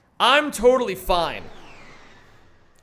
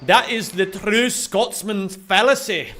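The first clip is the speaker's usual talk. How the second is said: put-on Scottish accent; 3 dB louder than usual. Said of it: "do that impression".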